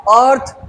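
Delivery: अर्थ as one unbroken sound; said in one beat. Shown as a demonstration. Teacher showing a one-syllable word, said in one beat. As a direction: say अर्थ in one go, no break inside. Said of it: "एक बार में बोला".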